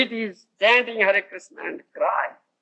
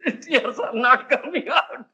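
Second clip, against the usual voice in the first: laughing; 4 semitones higher than usual. Real, not acted. Teacher laughing about not crying.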